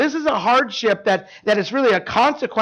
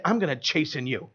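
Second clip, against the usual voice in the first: low, soft, ominous threat; low soft threat to a stranger; menacing low line; 7 semitones lower, 8 dB quieter than usual. Pretend. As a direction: say it like a quiet menace. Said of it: "walk up to somebody and say".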